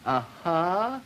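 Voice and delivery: uh-huh stretched and rising; drawled uh-huh. Shown as a demonstration. Lecturer demonstrating a drawled uh-huh to students, drawn out. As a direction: linger on the uh-huh. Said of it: "with plus drawl on it".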